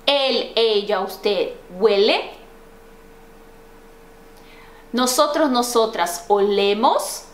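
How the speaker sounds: careful conjugation drill, each item spaced out; repeat-after-me drill. Shown as a demonstration. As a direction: recite for learners, leaving long gaps to repeat. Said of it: "repete lá".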